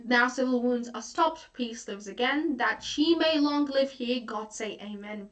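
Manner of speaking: rising then falling close on "amen"; couplet read for finality. Shown as a demonstration. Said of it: "rereads the couplet for finality".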